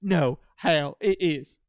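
hammed-up Southern whine; mock Amy. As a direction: plead it like Amy.

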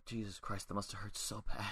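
hushed inner-voice quote; thinking to oneself. Retold or imitated. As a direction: drop the voice right down, as if to yourself. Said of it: "I remember thinking to myself".

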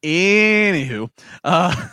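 drawn-out sing-song anywho, high and loud; playful anywho. Real, not acted. Host drawing out anywho to switch topics. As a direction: stretch it out to change the subject.

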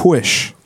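"Whish" with a breathy hw at the start; extra h sounds. Shown as a demonstration. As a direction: blow an H in front of "Whish". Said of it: "With an H".

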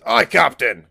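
put-on high, loud boyish ship's call; high-pitched, loud "yes sir" shout. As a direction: call it out high and eager like a young deckhand. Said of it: "a really high-pitched voice".

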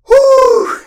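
loud, high "whew"; big panicked exhale. Acted. Told to breathe in a panic, loud high exhale. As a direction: blow out a loud acted breath.

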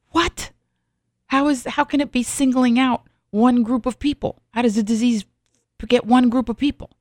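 high-pitched, incredulous questioning; baffled disbelief. Retold or imitated. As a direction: re-enact being stunned by baffling news. Retelling own shocked reaction to news.

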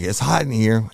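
high, loud re-enacted call for help; urgent signal call. Officer signalling his detectives from the stall, urgent high call.

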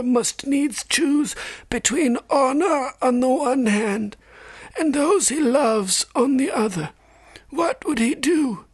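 put-on very high, slow old man's voice; old maester. A narrator's reading. Old maester teaching Jon about ravens and crows, aged voice. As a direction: play an aged scholar, drawn out and high. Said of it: "The old man seemed".

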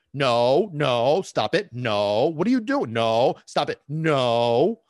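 loud, repeated scolding no's; mock screaming owner. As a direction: scold the dog loudly, drawing out each no. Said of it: "start screaming".

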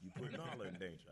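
lightly voiced stern lion father; a hint of a stern lion king; Mufasa. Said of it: "here's my impression of Mufasa".

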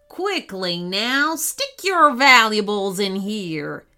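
slow menacing robber growl; low threatening jittery hiss. Acted. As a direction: threaten them, slow and heavy. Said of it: "he growled".

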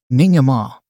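lightly panted; breathless gasp of a word; panting. Acted. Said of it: "Emily panted".

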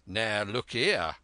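loud, slow, gruff captain; gruff challenge. Acted. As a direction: face him down, loud. Captain confronts Black Dog.

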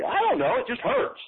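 high, half-whispered helpless patient; clueless patient. Acted. Patient to doctor, helpless and high, half-whispered. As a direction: whine it like a patient with no idea.

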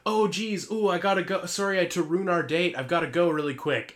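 high, hurried excuse; flustered teen leaving a date; flustered anime teen. Pretend. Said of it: "So they're like".

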